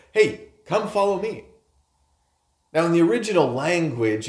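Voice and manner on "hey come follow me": calling out. Retold or imitated. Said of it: "he's like".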